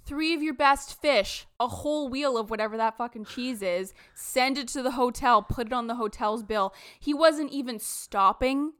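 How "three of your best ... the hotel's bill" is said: mock hollering chef. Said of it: "hollering at the vendors being like".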